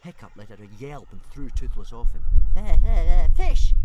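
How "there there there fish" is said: high-pitched stuttering little dragon; hissing baby dragon. A narrator's reading. Hungry dragon to Hiccup after biting him, high hiss. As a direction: stammer it out high, like a demanding small dragon. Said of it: "hissed Toothless".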